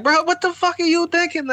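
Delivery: imitating himself yelling at the screen, pitched high; hammed-up frustrated yell; mock yell at the TV. Retelling how he yelled at the show, mock yell. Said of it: "I'd be yelling at the T V".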